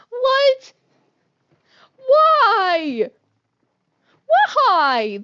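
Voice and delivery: high, loud disbelieving "what? why?"; shocked outcry. Real, not acted. Streamer shocked at her own mispronunciation, loud outraged cry.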